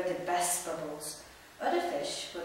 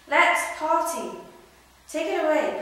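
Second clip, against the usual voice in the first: joyful cry; 10 semitones higher, 10 dB louder than usual. Acted. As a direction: whoop to start the celebration. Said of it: "he cried".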